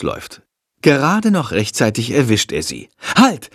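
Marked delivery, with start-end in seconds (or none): 3.2-3.5 loud, high call to stop; shouted warning. Acted. Boy shouting to friend at the bus, loud. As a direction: yell to stop her boarding the bus. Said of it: "ruft er".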